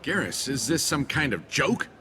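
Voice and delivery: can't believe this is serious; incredulous. Acted. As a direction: ask it in rising disbelief. Accused man reacts in disbelief.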